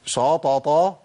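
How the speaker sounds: dark, thickened ش in شططا; heavy shin. Shown as a demonstration. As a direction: mimic the mistake of a heavy sho in شططا. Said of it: "زي اللي بيقول".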